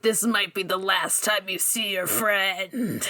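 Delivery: slow, mildly menacing character voice; mock menace under a polite surface; nice but menacing. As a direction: imitate a veiled threat, taking it slowly. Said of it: "trying to be nice about it, but he's also menacing".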